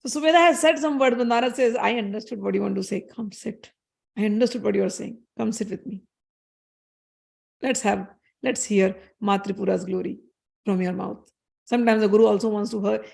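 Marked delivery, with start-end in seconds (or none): 1.8-11.3 tender invitation. Acted. Narad softly inviting his student Sumedha to sit and speak, tender. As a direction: gently draw the shy student in to sit.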